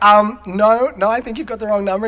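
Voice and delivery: imitating strained politeness; keeping it cool. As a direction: play a dad trying to stay calm on the phone. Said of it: "trying to, like, keep it cool".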